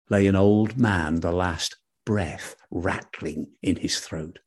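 hushed bedtime-story telling; story narration. A narrator's reading. Narration resumes.

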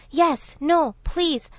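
high-pitched flustered dithering; confused jackal. A narrator's reading. Jackal answering the impatient tiger, mock confusion. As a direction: waver helplessly from word to word. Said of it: "The jackal was very confused".

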